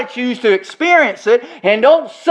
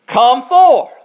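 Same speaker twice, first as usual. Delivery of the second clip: a louder, higher call; loud cry; 4 semitones higher, 5 dB louder than usual. Acted. Preacher voicing Jesus at the tomb, loud command. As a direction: command him out of the grave. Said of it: "he cries with a loud voice".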